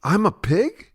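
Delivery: high rising question on the insult; incredulous. Acted. Dweeb answering being called a pig, incredulous. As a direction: repeat the insult back in disbelief.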